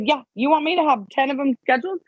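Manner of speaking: mocking the plan during Christmas break; mocking laugh. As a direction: scoff at the idea of ten scheduled calls. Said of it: "I laughed at him and I said".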